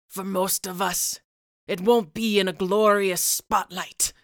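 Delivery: put-on weathered old sailor telling a tale; lightly voiced old seaman, reflective. Old sailor epilogue narration.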